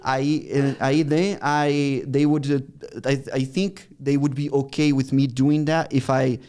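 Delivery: English with a Brazilian Portuguese accent; put-on Brazilian-accented English. Shown as a demonstration. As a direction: pose as a Brazilian with limited English. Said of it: "the, the Brazilian accent".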